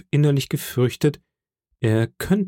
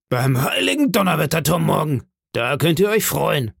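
higher-pitched, moderately raised oath; exclaiming landlord; 5 semitones higher than usual. Acted. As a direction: call out a warning to the sailor. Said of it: "rief der Wirt".

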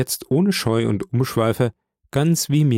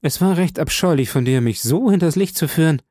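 pouty; 5 semitones higher, faster than usual. Acted. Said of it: "schmollte sie".

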